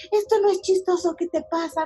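retold yelling. Woman imitates her furious ex-boyfriend scolding her, high mock yell. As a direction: imitate an angry scolding without full volume. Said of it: "me empezó a gritar de que".

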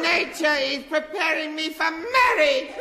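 put-on high, giddy little boy; squeaky kid character, gushing; childish high voice.

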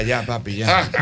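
low, soft consoling of a friend. Retold or imitated. To a crying friend, softly consoling. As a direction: gently hush him, keeping it low. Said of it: "llorando los dos".

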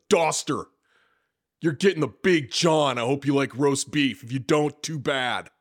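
loud, high call-out of orders; mock drill-instructor bark. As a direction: bark it like an instructor handing out rations. Mimics instructor calling out food orders.

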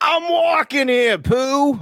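slow, high-pitched yell; mock outraged shout. Host parodying the player's story, mock outraged shout. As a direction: holler it in hammed-up outrage.

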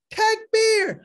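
high shouted call; loud chant call; yelled takbir. Retold or imitated. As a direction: call it out high to the whole crowd. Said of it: "He yells".

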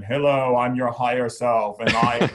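stoic spirit voice. Retold or imitated. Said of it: "the spirits talk like this".

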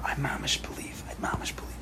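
intense whisper with strength. Shown as a demonstration. Teacher shows how to whisper a strong belief, intense whisper. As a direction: whisper it like you mean it. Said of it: "and you can whisper".

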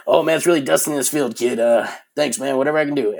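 gruff fake-casual thanks through tears; choked-up brush-off. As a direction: laugh off welling up, fast and loud. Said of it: "welled up crying".

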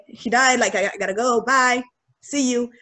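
brisk retold announcement, no grief; just say the words and go; matter of fact. Student leaving her confused roommates, matter of fact. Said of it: "matter of fact".

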